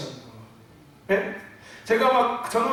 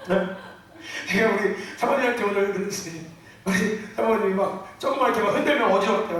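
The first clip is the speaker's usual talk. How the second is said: ordinary talk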